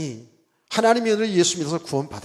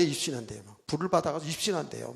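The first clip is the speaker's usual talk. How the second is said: lower, much softer repeat; quiet echo; 4 semitones lower, 10 dB quieter than usual. Real, not acted. Preacher echoes the rumour to himself, low and soft. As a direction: drop it to an aside. Echoed softly after the loud take.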